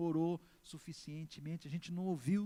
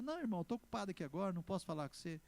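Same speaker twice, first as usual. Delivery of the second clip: quick, busy excuse, lightly acted; hurried brush-off; much faster than usual. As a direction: brush the visitor off in a hurry. Acting a busy man brushing off visitor.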